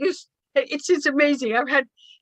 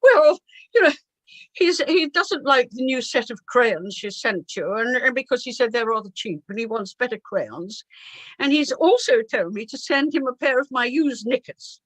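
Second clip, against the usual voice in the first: posh secretary; 2 semitones higher than usual. Retold or imitated. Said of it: "who was quite posh".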